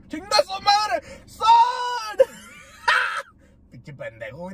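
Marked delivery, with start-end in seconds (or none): 0.1-2.3 high-pitched, hammed-up disbelief; mock shocked outcry. Husband retelling the vato's paternity surprise, mock shocked outcry.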